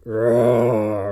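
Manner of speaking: low, drawn-out playful roar; mock monster roar. Teacher showing off a game character, mock roar. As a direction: growl out a pretend roar.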